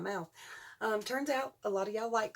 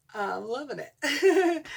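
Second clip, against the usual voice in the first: slow, higher, louder with a laugh; 6 semitones higher, 6 dB louder, much slower than usual. Real, not acted. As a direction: sing it out laughing, stretched.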